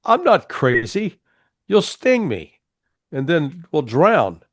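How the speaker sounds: voicing the frog. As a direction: raise the pitch and slow down, a worried little frog refusing. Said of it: "the frog says".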